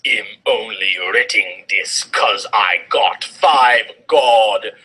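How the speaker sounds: slow, exasperated author's note; whiny author voice. Acted. Reader voicing the author scolding her critics. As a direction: drone it like an offended fanfic writer.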